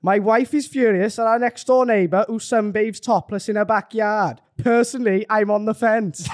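attempted Welsh accent, wandering. Retelling the joke on demand, shaky attempt at Welsh accent. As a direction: tell it in a wobbly Welsh accent. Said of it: "Welsh will make me laugh more".

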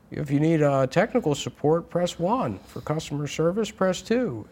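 high automated phone prompt voice; phone menu voice. Retold or imitated. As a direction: read it like a recorded phone menu. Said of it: "So it's like".

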